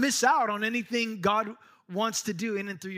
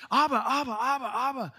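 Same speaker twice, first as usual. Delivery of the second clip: put-on boy calling daddy; 6 semitones higher than usual. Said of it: "a little boy calling for his daddy".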